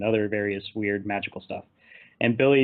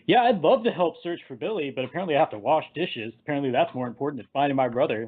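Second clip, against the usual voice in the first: overplayed mock complaint, pitched up at the start; hamming it up. Freddy stuck washing dishes, hamming it up. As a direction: ham up a put-upon teenager's grumble. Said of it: "really hamming it up".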